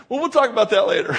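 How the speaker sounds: mock-polite deferral, rushed out; gracious dodge. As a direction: politely put them off in a hurry. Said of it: "Be gracious and say".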